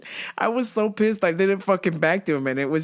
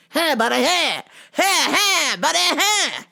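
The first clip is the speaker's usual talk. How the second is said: customer voice; 7 semitones higher, 4 dB louder than usual. Retold or imitated.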